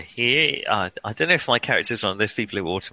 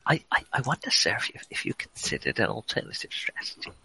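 John Le Mesurier; 5 dB quieter than usual. Acted. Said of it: "I'm gonna be John Le Mesurier".

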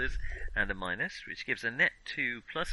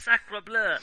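hammy French chef exclaiming; mock French accent, high and loud; 9 semitones higher, 6 dB louder than usual.

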